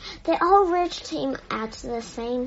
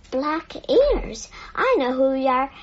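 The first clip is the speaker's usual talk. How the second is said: grim; 4 dB louder than usual. Acted. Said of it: "he said grimly".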